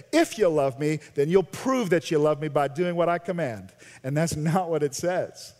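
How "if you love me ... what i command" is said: mocking legalists. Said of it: "This is how they say it".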